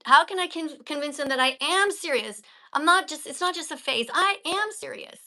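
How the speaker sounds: insist, hit the key words; emphatic reading. Shown as a demonstration. Teacher showing the student how to stress the words. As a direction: stress on not and am, I am pushed high.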